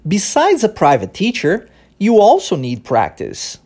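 slow English model line, pause after teacher; natural rhythm demo. Shown as a demonstration. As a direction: say it with a pause right after "teacher", tune falling at the end. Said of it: "uma pausa que é feita, logo depois da palavra teacher". (frase modelo lenta, com pausa depois de "teacher")

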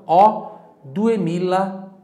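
slow and loud on "Ó, duemila"; slow model phrase. Shown as a demonstration. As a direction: model the whole amount to be repeated. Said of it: "conseguiu repetir".

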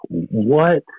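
jolted by the biker's strange message; stunned what. Retold or imitated. To the biker at his car door, a startled question. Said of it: "I'm like".

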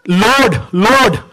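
a touch of a desperate plea on Lord, Lord; lightly voiced pleading cry; mild cry of desperation. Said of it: "This was a cry of desperation".

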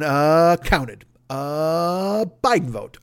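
slow drawn-out uh before each word; lightly voiced Eddie Murphy, deadpan. Eddie Murphy calmly counting votes, lightly voiced deadpan. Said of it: "Eddie Murphy's just going".

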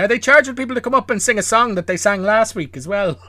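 high, loud disbelieving rant; exasperated mock outrage; incredulous. Real, not acted. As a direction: pile on the disbelief. Incredulous rant about talent show.

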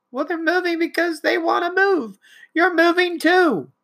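high, mocking voice of the parent; mock parent reply. Parent answers teen in quarrel.

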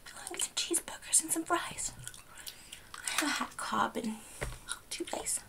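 put-on lightly Southern accent; slipping into Southern. Clerk listing what she'll eat, slipping Southern. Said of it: "Went a little southern there".

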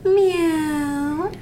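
a high meow; cat meow demo. Shown as a demonstration. Cat teaches Bob how to meow, high. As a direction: show him a cat's meow. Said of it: "Try this".

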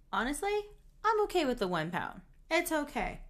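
mildly hammed-up reluctance; reluctant begging off. Voices Chandler begging off.

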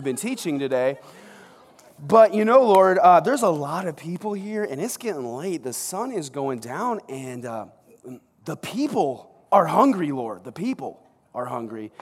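politely awkward, nervous flattery; butter him up before the ask; sheepish interruption. Retold or imitated. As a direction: Peter interrupting Jesus mid-sermon, awkwardly polite. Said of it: "Peter actually kind of interrupted Jesus".

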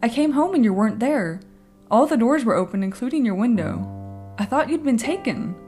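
muffled through a pillow. Acted. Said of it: "Her voice is muffled, quiet, as if she's talking through a pillow".

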